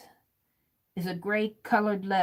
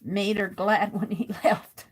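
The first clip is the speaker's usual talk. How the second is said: amused. Real, not acted. Amused by the creepy man note.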